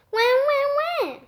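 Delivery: high, breathy exasperated plea; weary despair. Acted. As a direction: groan it out in despair. Head in hands, despair.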